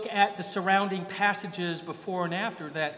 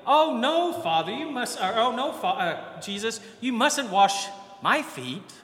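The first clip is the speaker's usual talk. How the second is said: flustered protest; 4 semitones higher, 4 dB louder than usual. Retold or imitated.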